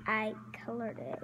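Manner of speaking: soft whispered aside. Real, not acted. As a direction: breathe it softly.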